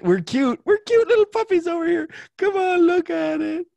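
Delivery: put-on very high squeaky baby talk; cute puppy voice. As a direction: coo like a cute little puppy. Cute puppy voice urging her.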